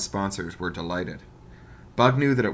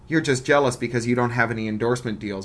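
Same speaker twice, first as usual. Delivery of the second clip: petulant; 2 semitones higher, faster than usual. Acted. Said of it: "with a calculated amount of petulance".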